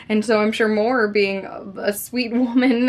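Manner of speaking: normal talking voice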